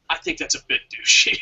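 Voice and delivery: playful whisper; whispered aside. Real, not acted. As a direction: breathe it out as a teasing aside. Teasing aside, unvoiced.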